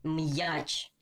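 м'яч split after м, with a clear y-glide; м'яч as "m-yach", the y heard clearly; with apostrophe. Shown as a demonstration. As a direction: separate м from a distinct "yach" in м'яч. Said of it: "Повторюю".

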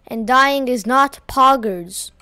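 flat, slow robot voice. Real, not acted. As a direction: read it like a deadpan robot. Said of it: "Why am I saying this like I'm a robot?".

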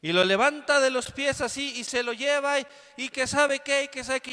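animated storytelling; dramatic telling. Real, not acted. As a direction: paint the scene with heat. Excited dramatic retelling.

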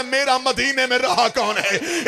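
high, lamenting question; tearful question. Acted. Hussain asking who is left in Madina, tearful lament. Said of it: "Hussain रो के दे".

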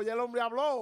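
a hint of her happy relief on the phone; quoted woman's line. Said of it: "ella dijo".

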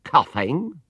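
high startled cry; surprised exclaim. A narrator's reading. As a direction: sound shocked and alarmed. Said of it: "exclaimed Missus Bird".

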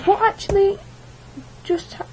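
high exasperated complaint. Real, not acted. Gamer complains to viewers about his bad luck, high exasperated. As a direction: whine it out in disbelief.

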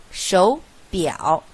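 手 rising as a second tone, 表 full dipping third tone; 手表 said as shóu biǎo; third-tone sandhi. Shown as a demonstration. Teacher models the change, 手 rising as second tone. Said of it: "则前面手变为二声".

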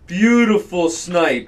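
drawn-out praise. Real, not acted. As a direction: stretch it out, admiring the kill.

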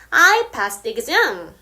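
I passed the exam, spoken very slowly; careful teacher read; slow demo; slow example. Shown as a demonstration. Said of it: "예문을 들어볼게요".

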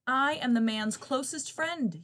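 loud, high, slow yelp; yelping dog. Acted. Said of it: "yelped the dog".

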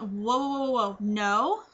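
a run of whoas into a drawn-out no; taken-aback refusal. Retold or imitated. Patient stopping nurse over the induction date, taken aback. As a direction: halt them with whoas, slow questioning no. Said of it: "Just like that. Like, that's exactly how I said it".

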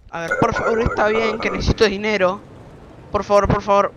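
loud, urgent begging; desperate please; pleading. Real, not acted. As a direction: beg the game to let it pass. Begging game for money.

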